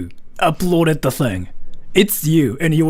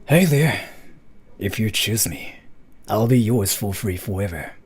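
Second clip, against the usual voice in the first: sexy voice; 4 semitones lower than usual. Shown as a demonstration. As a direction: purr it like an anime hunk. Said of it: "typical anime guy".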